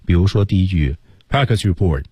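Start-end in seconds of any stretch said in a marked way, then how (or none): 1.3-2.0 brisk, clipped delivery of "practice report"; quick, no dragging. Shown as a demonstration. Teacher shows students that the opening line cannot drag, quick. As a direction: say "practice report" promptly without stretching it. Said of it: "它就不能慢".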